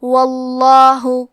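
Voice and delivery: واللہ with a thick, heavy lam, slow and full. Shown as a demonstration. Teacher models the heavy lam in واللہ. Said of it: "لام کو موٹی آواز میں پڑھیں گے".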